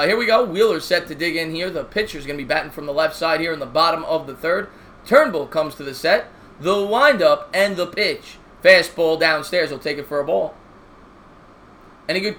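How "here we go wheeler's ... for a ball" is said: steady broadcaster call of the inning; play-by-play commentary. Acted. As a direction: call the game like a TV announcer. Mock play-by-play of game.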